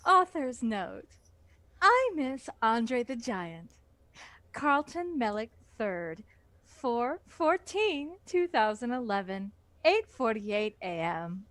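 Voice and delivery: polite phone-agent reading of the note; customer service read. Pretend. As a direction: read it like a helpful call centre agent. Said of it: "customer service-ish read this extremely long".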